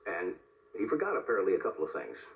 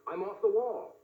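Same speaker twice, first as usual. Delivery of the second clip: lightly raised pitch, mock yell; mild mock yell; 9 semitones higher, slower than usual. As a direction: toss off a half-hearted yell. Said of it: "he ran down the hall yelling today".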